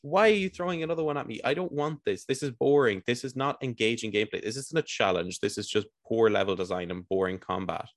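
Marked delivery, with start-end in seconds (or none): 0.0-4.8 exasperated rant. Real, not acted. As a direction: vent about the endless rooms. Ranting about repeated waves.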